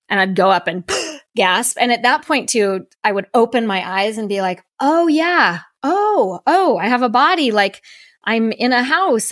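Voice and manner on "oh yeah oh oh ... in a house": higher, amazed rediscovery; retold surprise. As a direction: wonder at finding your own body. Surprised to have a body again.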